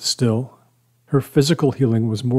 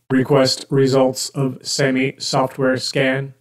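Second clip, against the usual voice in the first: robot voice; 2 semitones higher, slower than usual. Acted. The speaker plays along as robot.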